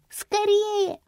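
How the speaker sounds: put-on a high hushed child's voice; whisper-urge like a little girl. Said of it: "не забыв прошептать".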